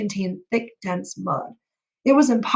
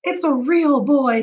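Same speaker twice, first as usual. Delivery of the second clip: amazed exclaim; 5 semitones higher, 3 dB louder, slower than usual. Acted. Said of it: "Dad exclaimed".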